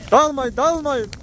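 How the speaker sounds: high, slow call to the flock; drawn-out shout to keep them together. Real, not acted. Calling flock to stay together.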